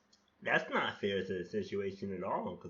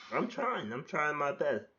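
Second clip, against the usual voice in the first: whiny defense; 6 semitones higher, 3 dB louder than usual. Acted. Answers the scolding of himself.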